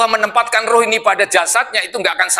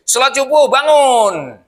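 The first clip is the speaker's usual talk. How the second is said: higher, insistent call to prayer; wake-up call; 6 semitones higher, 3 dB louder, slower than usual. Acted. Preacher acts out rousing sleepers for dawn prayer, calling out. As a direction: rouse the sleepers with a raised call.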